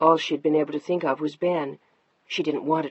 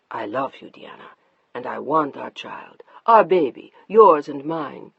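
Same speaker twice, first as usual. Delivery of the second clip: tender husband; 3 semitones lower, 5 dB louder than usual. Acted.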